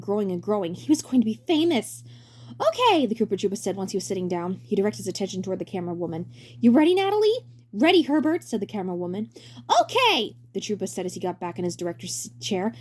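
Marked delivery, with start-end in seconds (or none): 2.6-3.1 bright high showman voice; high cheery director voice. Acted. 6.6-7.5 bright high showman voice; high cheery director voice. Acted. 7.7-8.4 high camerawoman voice. Acted. 9.8-10.4 bright high showman voice; high cheery director voice. Acted.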